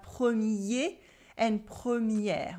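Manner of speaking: premier and première with a clear E in pre; clear E sound. Shown as a demonstration. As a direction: open the E in premier. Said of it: "the E in pre is a E sound".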